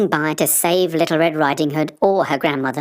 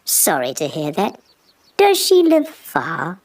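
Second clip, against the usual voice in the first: mock sad. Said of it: "trying to look sad".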